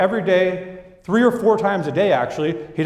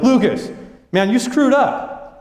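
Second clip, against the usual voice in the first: higher, slow complaint to the boss; a mild mock accusation; new guy griping to the boss about hoses; frustrated new guy; 6 semitones higher, slower than usual. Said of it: "He was like".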